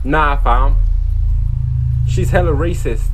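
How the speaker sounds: loud, slangy British accent; British YouTuber-style accent. Real, not acted. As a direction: slip into British street slang, loudly. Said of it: "why am I speaking in a British accent".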